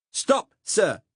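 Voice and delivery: put-on loud, high Saxon-accented order; the conscript repeating his order, now shouting; Saxon German accent. Saxon cop ordering the narrator to halt, loud Saxon accent. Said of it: "said the cop again".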